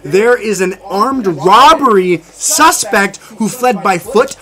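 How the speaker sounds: slow, loud breaking-news read; news anchor. Acted. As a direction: announce it like a TV anchor.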